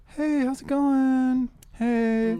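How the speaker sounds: male voice, very high-pitched. Asking friends whether they would date a guy like this, high-pitched guy voice. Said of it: "what if he was like".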